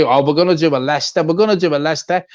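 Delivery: tongue in cheek. Retold or imitated. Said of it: "tongue in cheek say".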